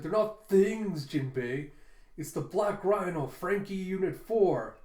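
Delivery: mildly outraged correction, drawn-out stress; mock indignant. Frankie correcting Jinbei about his machines, mock mad. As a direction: raise the voice in mock offence. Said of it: "Frankie gets all mad".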